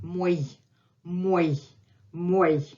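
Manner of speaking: "Мой" with a clear y-glide at the end; semiconsonant й. Shown as a demonstration. Teacher shows the semiconsonant, each "мой" separate and deliberate. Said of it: "This is our semiconsonant".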